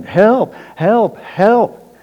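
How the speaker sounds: high, loud cries for help echoing off the cliff; hollering for help. Retold or imitated. Hiker hanging from a branch calls out for help, high loud hollering. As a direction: yell it out, desperate, from the dark ledge. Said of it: "and he's hollering".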